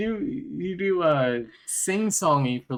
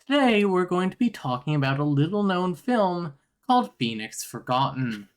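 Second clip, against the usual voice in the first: rising YouTuber intro voice, higher; Ryan Hollinger impression; 4 semitones higher than usual. Friend asks for a YouTuber impression, mock intro voice. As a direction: open like a horror YouTuber. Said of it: "give us the Ryan Hollinger".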